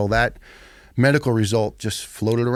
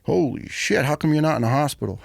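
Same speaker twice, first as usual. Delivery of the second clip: higher, fast, alarmed disbelief; imitating shocked medic; 4 semitones higher than usual. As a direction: medic reacting to the thick folder. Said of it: "And he goes".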